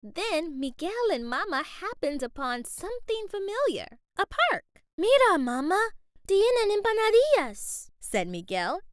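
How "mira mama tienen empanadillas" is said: put-on loud, higher, eager boy; excited. A narrator's reading. Boy spotting empanadillas in the park, loud and excited. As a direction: call out with glee at familiar food. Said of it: "excited to see something else".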